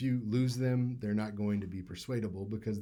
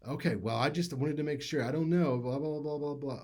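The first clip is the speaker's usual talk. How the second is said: higher, lightly mocking girlfriend on the phone; brush-off blah blah, hammed up a little; 4 semitones higher than usual. Girlfriend checking in on Will, mildly mocked.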